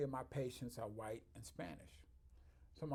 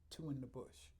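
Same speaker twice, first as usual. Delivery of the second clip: whisper; 6 dB quieter than usual. Real, not acted. Ending proverb.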